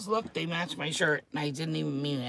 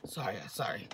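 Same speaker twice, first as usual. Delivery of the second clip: quick apology; 9 semitones lower, 8 dB quieter than usual. Real, not acted. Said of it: "I'm hyped up tonight".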